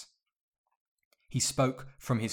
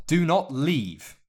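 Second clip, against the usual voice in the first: ordering; 7 semitones higher, 8 dB louder, slower than usual. A narrator's reading. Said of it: "he ordered".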